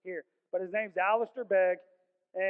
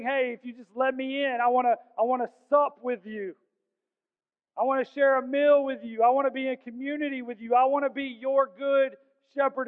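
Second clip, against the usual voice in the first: higher, louder preacher's appeal; impassioned plea; 5 semitones higher, 5 dB louder than usual. Acted. Preacher voicing Jesus still knocking, in an impassioned plea. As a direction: plead with rising urgency as you offer the invitation.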